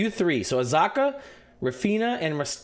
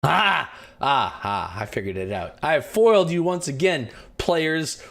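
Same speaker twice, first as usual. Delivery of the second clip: sneering panto villain; 4 dB louder, slower than usual. Acted. DM gloats as villain to players.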